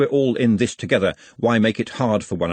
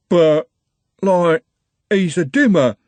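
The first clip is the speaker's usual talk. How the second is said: a hint of a timid lad, pitched up and pushed out; nervous young lad defending his friend, a touch higher; lightly voiced Algernon; 8 semitones higher, 6 dB louder, slower than usual. Algernon bleating a weak excuse at furious Trev, mildly voiced.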